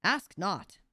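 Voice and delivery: solemn, ominous warning from the replica. A narrator's reading. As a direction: say it like a dark omen. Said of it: "said ominously".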